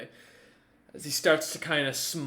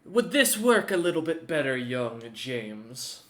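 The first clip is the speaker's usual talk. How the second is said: louder warlord in dwarvish; 5 dB louder than usual. Acted. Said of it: "switches to dwarvish and goes".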